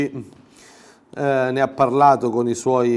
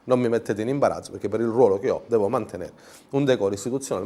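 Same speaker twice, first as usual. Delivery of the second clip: mock President; 3 semitones lower, 3 dB quieter, faster than usual.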